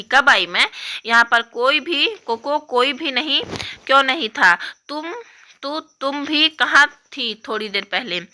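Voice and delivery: lightly voiced upset young girl; upset little girl. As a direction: complain like a hurt kid.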